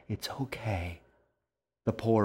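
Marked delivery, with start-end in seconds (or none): 0.1-1.0 soothing. Acted. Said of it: "to calm her down".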